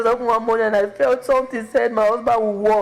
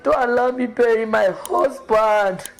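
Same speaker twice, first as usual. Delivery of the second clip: tearful prayer; 3 semitones higher, slower than usual. Retold or imitated. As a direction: pray through tears. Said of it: "I was telling God".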